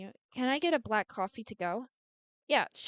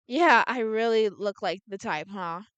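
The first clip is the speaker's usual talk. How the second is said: sarcastic, drawn out, louder; drawn-out sarcasm; 6 dB louder than usual. Acted. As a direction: drag it out sarcastically. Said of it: "I draw out sarca-, sarcastically".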